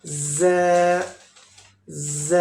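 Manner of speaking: a hard "ज़" with the teeth together; hard whistling zaa. Shown as a demonstration. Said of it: "ये सख्त letter है".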